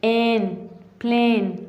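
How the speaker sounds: एन, प्लेन with long "ay" vowels; long A sound. Shown as a demonstration. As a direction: stretch the vowel in एन, then in प्लेन. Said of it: "इसे हम long करके पढ़ते हैं".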